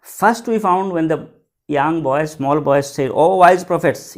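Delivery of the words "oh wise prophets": slow, louder quoted address; a measured, loud proclamation; calling out. Acted. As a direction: call it out to the assembled astrologers. Boy's address quoted once more.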